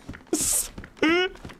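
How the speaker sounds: high, quiet mock sob; imitated whimpering; put-on squeaky sobbing; mock crying. Continues imitation of upset girl.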